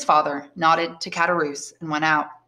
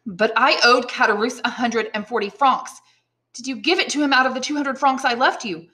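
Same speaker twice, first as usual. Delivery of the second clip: higher, mildly alarmed questioning; concerned young Edmund; 6 semitones higher than usual. Acted. Son questions father about the debt, mild alarm. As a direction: press the point with growing worry.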